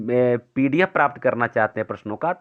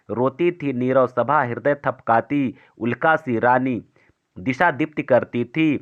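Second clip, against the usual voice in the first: measured verse reading, lingering on line ends; poem recitation; slower than usual. Acted. Teacher reads Kaikeyi's plea to students, measured poem recitation. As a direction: recite the Hindi verse with drawn-out phrases and pauses.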